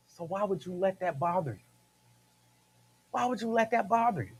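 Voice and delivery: soft, reasoning parent voice, imitated; calm mama. Mama asking her upset child, softly reasoning. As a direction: ask it softly, like a mother settling a child.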